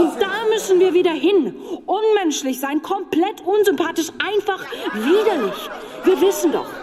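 rousing rally speech. Acted. Speaker rallying party members, fired up. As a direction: whip up the party crowd.

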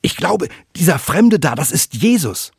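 a fisherman shouting in disbelief; surprised call. A narrator's reading. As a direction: call out amazed at the stranger. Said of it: "ruft daraufhin verwundert".

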